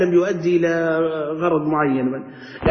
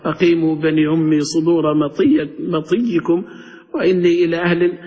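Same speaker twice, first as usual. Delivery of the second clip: poem recitation. Retold or imitated. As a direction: lightly chant the ancient ode, drawing out each foot. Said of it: "تقرأ لي قصيدة".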